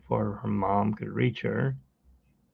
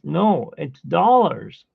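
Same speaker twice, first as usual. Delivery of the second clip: slow, high and louder insisting; insistent; 5 semitones higher, 4 dB louder, much slower than usual. Retold or imitated. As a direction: stretch each word to convince. Friend insisting it's dollars.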